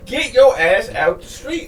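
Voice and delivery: bossing him off the street; imitating a gruff rapper's command; mock Vince. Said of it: "He'd be like".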